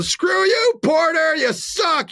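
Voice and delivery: high New York fan holler; imitated screaming fans. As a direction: heckle like a Jets fan. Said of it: "were screaming at him".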